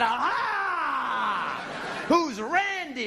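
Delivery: high gleeful gotcha; mock triumphant gotcha. Husband catching his wife out, in a high gleeful gotcha. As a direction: pounce on her like a detective.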